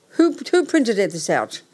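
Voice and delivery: fuming over the wrong printout; exasperated outrage. Real, not acted. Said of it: "I'm getting angrier by the minute".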